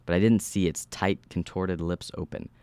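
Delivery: measured horror-story narration; steady storyteller reading. A narrator's reading. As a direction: read the story aloud with even, controlled delivery. Reads horror story aloud.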